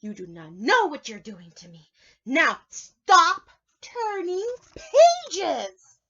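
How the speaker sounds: high, loud, slow anguished Grover yell; exclaiming. Acted. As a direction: howl it in despair. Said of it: "exclaiming again".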